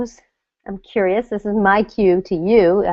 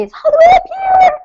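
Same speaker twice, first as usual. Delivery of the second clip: much higher, pinched demo voice; voice jumps up; 7 dB louder than usual. Shown as a demonstration. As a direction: show the breath stuck high in the chest. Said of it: "your voice might go up an octave".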